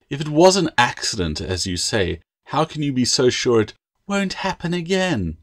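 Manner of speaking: mocking her words back at her; mocking parody. Master mocking the apprentice's promise, mocking parody. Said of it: "tone rose in a mocking parody".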